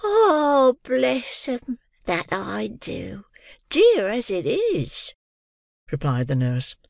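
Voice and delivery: high, slow gushing landlady voice; affected joy, very high and drawn out; gushing Mrs Mann. A narrator's reading. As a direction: overdo the delight, sugary and shrill-high.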